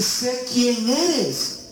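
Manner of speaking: very high, very slow demon voice; eerie, high, crawling demon line. Acted. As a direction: stretch every word like a spirit that knows. Demon speaks to Jesus.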